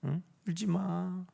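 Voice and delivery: soft, quiet comforting; 울지 마 whispered softly; gentle comfort. Retold or imitated. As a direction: hush someone tenderly. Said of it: "어떻게 말해요".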